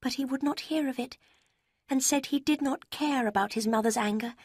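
high, sweet letter-writer voice; sugary young woman. A narrator's reading. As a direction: read it like a falsely sweet rival. Lucy's letter read in her voice.

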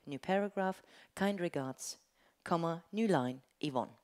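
dictating a letter, saying punctuation aloud; slow dictation with punctuation. Shown as a demonstration. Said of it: "Let's record a first dictation".

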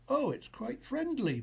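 high, lightly delighted; giggly. A narrator's reading. Boo finds the mouse friendly, lightly giggly. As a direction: lift the voice with pleased relief. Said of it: "Boo giggled".

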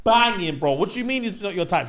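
loud, high, imitating the girls; mock incredulous protest. Girls insisting Duncan is attractive, mock incredulous. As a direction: protest in exaggerated disbelief.

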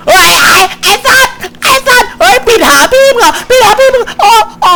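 high shrieking scream of fright, then a shaky laugh; terrified scream. Real, not acted. Player startled by a monster, shrieking in fright. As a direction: scream in real panic as something jumps out. Jump scare in horror game.

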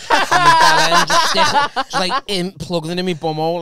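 high, slow, laugh-filled telling. Real, not acted. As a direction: crack up mid-sentence. Laughing through the story.

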